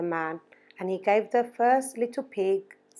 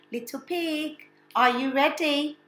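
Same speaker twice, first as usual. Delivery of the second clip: higher sly wolf; 6 semitones higher than usual. Acted. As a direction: call sweetly like the wolf. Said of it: "he asked".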